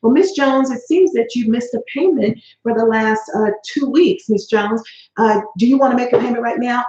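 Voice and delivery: lightly voiced pushy collector, a bit brighter; pushy bill collector. Collector Jim pressing Miss Jones to pay, lightly mock-pushy. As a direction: play the collector pressing for payment. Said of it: "Okay, Jim".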